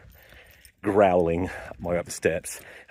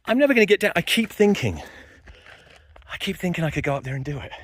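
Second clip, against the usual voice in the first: frantic fear; panicked; 10 semitones higher than usual. Real, not acted. Panicking high on staircase.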